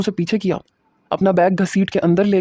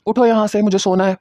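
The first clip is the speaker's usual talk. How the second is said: curt order, slightly raised; harsh tone; 2 semitones higher than usual. Acted. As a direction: brush her off harshly. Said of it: "میں نے کرخت لہجے میں کہا". (کرخت لہجے میں)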